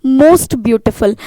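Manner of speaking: most beautiful drawn out very slowly, most stressed; emphatic answer. Shown as a demonstration. Teacher revealing the answer, very slow and stressed. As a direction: land the answer word by word. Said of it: "वो क्या हो जाएगा".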